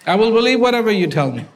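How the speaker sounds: quick laughing reply; laughing while talking. Acted. Cub laughing as he agrees to believe the lion. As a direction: rattle it off through a laugh.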